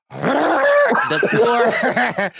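slow, broken up by laughter; laughing while talking. Real, not acted. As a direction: fight through the giggles. Laughing through announcement.

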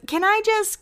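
a hint of tipsy Lauren calling out; half-hearted party yell; drunk yelling Lauren. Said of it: "she yells".

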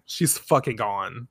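ordinary talk, nothing marked

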